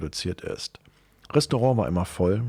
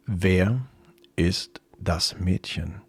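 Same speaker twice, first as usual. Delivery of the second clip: slow demand; 3 semitones lower, much slower than usual. Acted. Jealous partner demands an answer.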